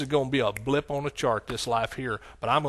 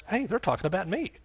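soft acted double take, rising on ME; dawning realization; 4 semitones higher, 7 dB quieter than usual. Award guest realizes they mean him, soft surprise. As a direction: quietly act out suddenly noticing. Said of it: "all of a sudden you realize".

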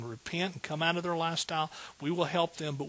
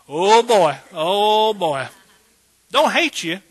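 loud exclamation; 4 semitones higher, 12 dB louder, slower than usual. Real, not acted. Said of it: "reaction to gossip joke".

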